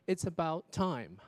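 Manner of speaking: TIME ending on a clearly closed M; lips closed on M. Shown as a demonstration. Teacher demonstrating to students, closed M in "time". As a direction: press the lips shut at the end of "time". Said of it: "你把这个双唇闭起来啊".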